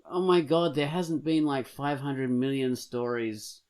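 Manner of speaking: high exasperated outburst. Real, not acted. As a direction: throw up your hands. Exasperated rant.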